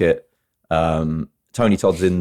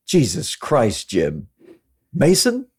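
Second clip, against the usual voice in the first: exasperated movie character; 8 semitones higher than usual. Retold or imitated. Quoting an FBI briefing line to the director, exasperated and high-pitched. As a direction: drag out the name, then climb into indignation. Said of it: "and he says to F B I Director Womack".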